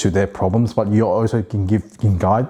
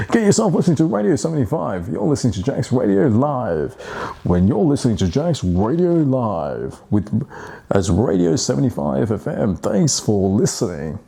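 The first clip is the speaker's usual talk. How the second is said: upbeat radio DJ station ident; 2 semitones higher than usual. Shown as a demonstration. Practising his radio voice, DJ announcer read. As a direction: announce it like a DJ on air. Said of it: "improve my radio voice".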